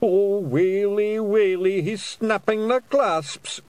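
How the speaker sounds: slow, high wailing groan; moaning at the sound of doom; groaning in dread. A narrator's reading. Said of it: "groaned Daft Woolly".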